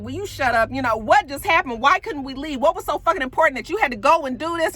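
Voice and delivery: retold fussing, rising in urgency. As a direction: imitate a girlfriend firing off annoyed questions. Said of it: "she's all fussing at him".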